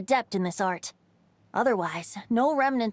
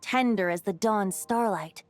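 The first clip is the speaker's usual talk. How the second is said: story narration. Acted. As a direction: spin the tale like a bard by the fire. Bard tells the legend.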